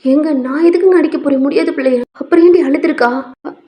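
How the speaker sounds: mildly heated domestic argument; parents quarrelling. Acted. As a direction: bicker over the sick child. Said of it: "கொஞ்சம் சண்டை போய்கிட்டு இருக்கு".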